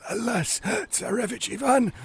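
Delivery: very high, breath-starved fish voice; sighing, gasping pike. Acted. Stranded pike appealing to Ivan, high and gasping. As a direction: sigh it high, gasping between words. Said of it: "sighed the pike".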